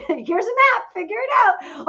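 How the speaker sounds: lightly voiced impatient boss; mock curt staff. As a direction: toss it off like busy staff. Staff brushing her off.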